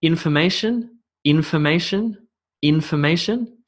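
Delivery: information with the beat on IN, rising; stress demo. Shown as a demonstration. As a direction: lean on the IN of information. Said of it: "where you place the emphasis".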